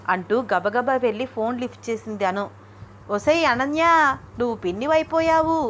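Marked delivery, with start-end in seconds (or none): 3.1-5.6 high, ringing announcement over the phone; grandmother's voice rings out, pitched high. Acted. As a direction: belt out the big news. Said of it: "కంగుమని వినిపిస్తోంది గాయత్రమ్మ గొంతు".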